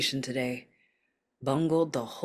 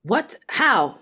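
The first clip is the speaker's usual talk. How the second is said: higher, louder startled questions; 6 semitones higher, 6 dB louder than usual. Acted. Milchick hearing about the breach, startled. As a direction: caught completely off guard.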